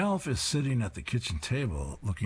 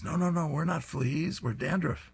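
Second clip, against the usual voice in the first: squeaky flea voice; 9 semitones higher than usual. Acted. Fleas protesting to the dog.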